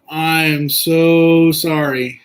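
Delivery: slow, drawn-out sympathy with weight on so; heartfelt sorry. Real, not acted. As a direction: stretch it out, really mean it. Sympathizing with viewer's costly mistake.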